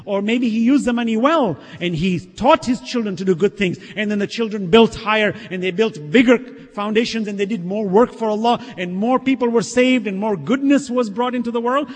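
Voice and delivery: forceful, building sermon cadence; impassioned preaching. Real, not acted. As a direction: pile up each good deed with emphasis.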